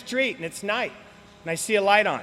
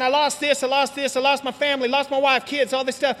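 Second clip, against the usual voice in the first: bragging meeting guys; 3 semitones higher than usual. Retold or imitated. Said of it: "you hear these guys saying".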